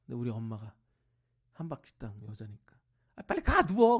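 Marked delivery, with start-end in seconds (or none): 3.2-4.0 much higher, louder scold of an impatient wife; mock scolding shout. Mother ordering the sick father to go lie down, loud. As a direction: shoo him off to bed like a nagging wife.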